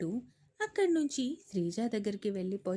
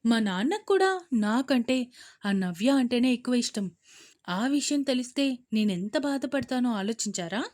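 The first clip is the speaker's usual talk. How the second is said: arrogant retort, louder; 5 dB louder than usual. Acted. Daughter defiantly answering her father, arrogant. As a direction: throw it back defiantly. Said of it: "పొగరుగా సమాధానమిచ్చింది".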